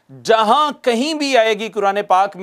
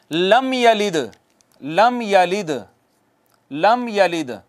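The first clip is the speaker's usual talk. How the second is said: Quran recitation; 2 semitones lower, slower than usual. Shown as a demonstration. Teacher reciting an example verse to the class. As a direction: recite लम यलिद in a measured chant. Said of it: "मिसाल के तौर पर".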